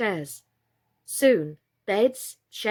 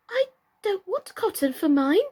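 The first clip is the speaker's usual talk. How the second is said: much higher, tearful protest; crying; 12 semitones higher, 3 dB louder than usual. A narrator's reading. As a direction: wail it out in distress. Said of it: "cried Birdie".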